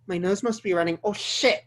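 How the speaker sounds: ordinary delivery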